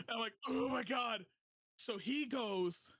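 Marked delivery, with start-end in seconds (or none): 0.5-1.2 loud startled oh my god; shocked outburst. Retold or imitated. Patient telling friend about doctor, shocked outburst. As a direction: blurt it out in shock.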